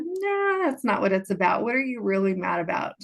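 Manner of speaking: firm insistence. Retold or imitated. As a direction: refuse her answer and press harder. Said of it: "And I said".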